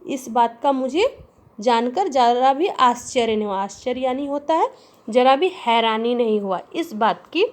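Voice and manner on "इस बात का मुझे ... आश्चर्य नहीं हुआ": angry master. Acted. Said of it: "गृहस्वामी कहता है कि".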